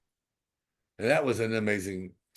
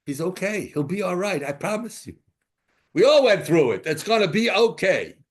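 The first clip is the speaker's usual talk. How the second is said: tag; 7 semitones higher, 6 dB louder than usual. Retold or imitated. Retold reassurance to crying father.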